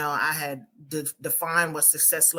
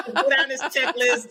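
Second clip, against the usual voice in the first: laughing; 9 semitones higher than usual. Retold or imitated. Mocking her checklist mindset.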